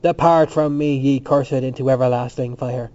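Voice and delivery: loud, declaimed banishment, easing at the end; mock-solemn address. A narrator's reading. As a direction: pronounce a curse like scripture. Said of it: "Addressing it as it lay".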